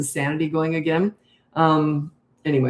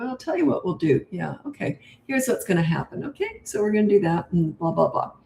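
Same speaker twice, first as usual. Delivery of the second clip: low and slow discipline. Shown as a demonstration. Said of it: "I talk low and slow".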